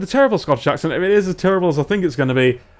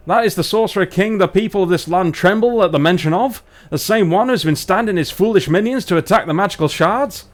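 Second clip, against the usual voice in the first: higher, emphatic northern English dwarf; Barnsley dwarf; 4 semitones higher, 3 dB louder than usual. Acted. Dwarf asks about the Sorcerer King, Barnsley accent. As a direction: question them in a hammed-up Barnsley accent. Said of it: "let's do our dwarves from Barnsley".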